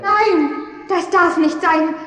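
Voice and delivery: mother cries out to the king in panic; desperate plea. Acted. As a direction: beg the king to spare the child. Mother begs king to spare child.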